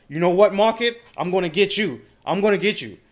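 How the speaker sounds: loud, high taunting threat at the market; mock revenge threat. Trader yelling defiantly at the market in mock revenge. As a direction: shout it like you're out to get revenge. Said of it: "tell the market".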